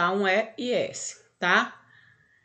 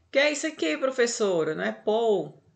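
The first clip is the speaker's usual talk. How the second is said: higher-pitched mock student question; imitated student; 3 semitones higher than usual. Student questioning the teacher about an odd word, imitated puzzlement. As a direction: put on a puzzled pupil's higher voice.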